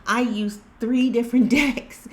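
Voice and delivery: words broken by a real laugh, pitch up. Real, not acted. Vlogger to viewers, laughing at the same message. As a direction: laugh it out in disbelief.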